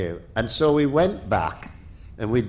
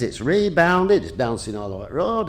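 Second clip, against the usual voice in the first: put-on Ian Grindrod's Lancashire accent; 3 semitones higher than usual. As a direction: imitate an incredulous Lancashire rally man. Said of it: "in his Lancashire accent".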